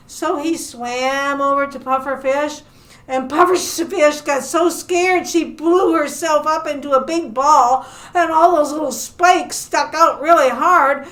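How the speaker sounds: lively, animated storytelling; story narration for children. Acted. Librarian telling children about a shark among fish, animated storytelling. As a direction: tell it to little listeners with playful emphasis.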